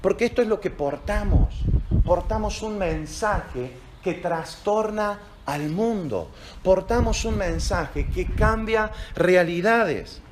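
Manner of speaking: "portamos" leaned on, each word spaced out; slow proclamation. Acted. Pastor to church about their message: slow, solemn proclamation. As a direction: declare it slowly and weightily.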